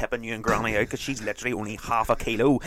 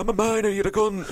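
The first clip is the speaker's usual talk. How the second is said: gruff miner dad; 11 semitones higher than usual. Retold or imitated. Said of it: "the boy that danced".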